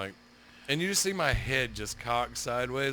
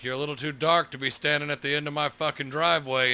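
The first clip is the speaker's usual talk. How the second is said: loud retold holler; hollering neighbor; 3 semitones higher, 7 dB louder than usual. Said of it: "hear my neighbor holler out".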